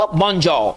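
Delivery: bonjour as "bon-JAW"; French pronunciation. Shown as a demonstration. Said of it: "French में कैसे कहेंगे".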